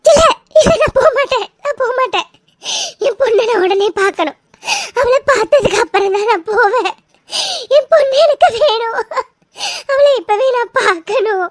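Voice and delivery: sobbing, won't leave without her daughter; crying refusal. Acted. Mother refuses to go home until she sees her daughter, sobbing. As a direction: cry and insist, close to breaking.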